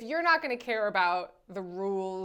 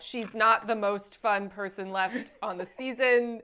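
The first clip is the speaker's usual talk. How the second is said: loud, pointed fake disavowal that eases off; put-on insistent dismissal; mock denial; 4 dB louder than usual. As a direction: pretend firmly that you dislike her. Pretends to dislike her favorite.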